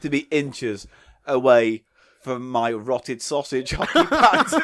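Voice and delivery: laughing. Acted. Mock grand boast, laughing.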